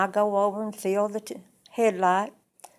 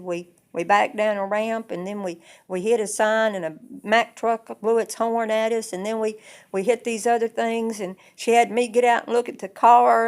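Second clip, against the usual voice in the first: rising, louder upset rush of events; a girl spilling the whole bad trip to her daddy, more and more upset; upset retelling; 3 semitones higher, 7 dB louder than usual. Upset girl telling daddy about the trip, getting louder. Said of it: "I'm so upset".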